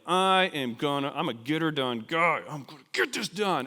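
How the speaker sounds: mock-intense self pep talk; hammed-up resolve. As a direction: psych yourself up with determination. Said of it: "just with more intensity".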